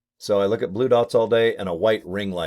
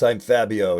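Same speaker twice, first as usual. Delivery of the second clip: Fabio impression; 3 dB louder than usual. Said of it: "He talked like this".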